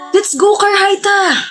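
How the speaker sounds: high, drawn-out shout; impatient high-pitched call. Acted. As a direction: shout for a friend to come along. Calling a friend away.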